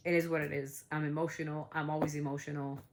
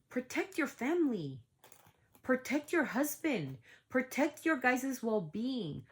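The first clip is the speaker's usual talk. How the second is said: higher, slow, drawn-out urging; emphatic, raised-pitch appeal; impassioned plea; 4 semitones higher, slower than usual. Real, not acted. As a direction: plead mom to mom, stretching each phrase. Impassioned direct plea to Hailey.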